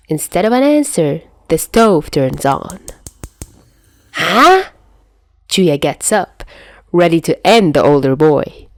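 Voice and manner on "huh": high, loud startled huh; sudden surprised huh, high and loud. A narrator's reading. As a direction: caught off guard. Stove turns on suddenly.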